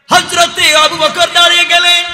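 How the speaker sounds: impassioned preacher-style shout, belted high and loud.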